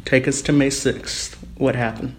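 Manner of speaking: digitally disguised voice; altered voice. Real, not acted. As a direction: voice run through a pitch changer. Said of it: "you'll hear it go from my normal voice to the witness's altered and disguised voice".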